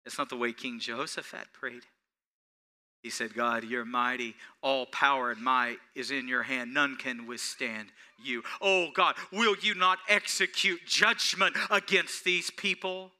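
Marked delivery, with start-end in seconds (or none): 3.3-13.1 humble trusting prayer. Retold or imitated. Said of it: "watch the vulnerability".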